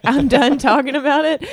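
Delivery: laughing through the quote; laughing mock brush-off. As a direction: giggle out the brush-off. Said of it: "I'm like".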